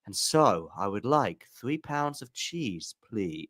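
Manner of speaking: slow documentary voice ordering groceries; voiceover narration. Retold or imitated. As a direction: read groceries like a nature documentary. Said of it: "I just imagine, like, her going".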